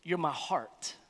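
slow earnest "innermost", softening to "you're my heart"; a tender confession to a loved one; heartfelt. Shown as a demonstration. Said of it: "That's like".

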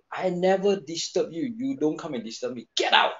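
mild mock yell building to "Get out!"; indignant telling-off, only half shouted; retold scream. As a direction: retell an angry outburst, punching the last words. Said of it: "I just scream it out".

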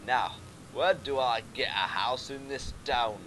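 mock Scottish read; playful put-on Scottish question; Scottish accent. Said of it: "I've gone Scottish now".

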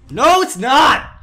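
high, drawn-out protest; insistent denial. Pretend. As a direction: deny it with exaggerated insistence. Insists to fan on false identity.

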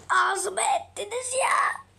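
breathy, slow mock whimper of despair; whimpering fake cry. Ruined by the outfit, whining to friends in a mock whimper. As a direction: pretend to sob under your breath.

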